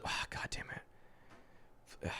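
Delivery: breathy whisper, drawn out very slow; stunned whispered God damn it; whispered curse. Real, not acted. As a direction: hiss it under your breath, slowly. Muttering in disbelief at play.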